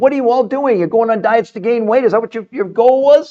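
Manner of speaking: animated fired-up rant. Addressing the audience directly, getting really animated. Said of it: "I get really animated. I'm sorry".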